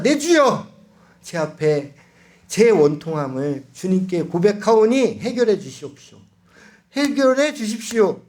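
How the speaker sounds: a demo of praying aloud with a crying voice; fervent crying prayer. Shown as a demonstration. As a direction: pour out your grief to God. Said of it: "이렇게 기도하시면 됩니다".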